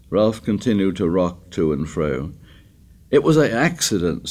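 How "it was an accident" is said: sudden high-pitched insistence; sudden outburst. A narrator's reading. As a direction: burst out with the excuse. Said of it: "said Piggy suddenly".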